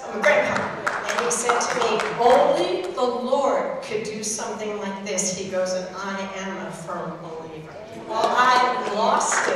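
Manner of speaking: overcome with emotion. Real, not acted. Emotional climax of testimony.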